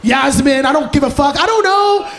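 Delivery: mock-panicked shout; panicked bluff. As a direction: blurt a brand name in panic. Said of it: "I'm like".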